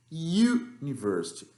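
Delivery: university said slowly, starting with a YU sound; university, English. Shown as a demonstration. Teacher models university for the class, slow. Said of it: "trocou por esse som de U".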